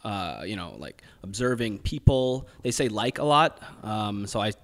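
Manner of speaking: American accent with drawn-out words; put-on American accent. Shown as a demonstration. Guest explains time spent observing Americans, put-on American accent. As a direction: keep up an easy American accent. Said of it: "and the accent is fun".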